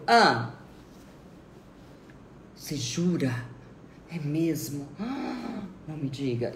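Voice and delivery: mock astonishment between pauses; feigned amazement. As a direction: play the amazed, interested listener. Acts example of attentive listener.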